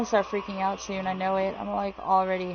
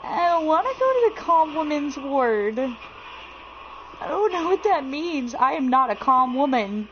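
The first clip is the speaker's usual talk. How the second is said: high-pitched, reluctant protest; 6 semitones higher, 3 dB louder than usual. Real, not acted. Protests going to the ward.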